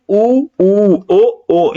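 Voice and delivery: ऊ and ओ said with lips rounded, held; rounded vowels. Shown as a demonstration. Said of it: "जैसे ऊ बोल के देखो".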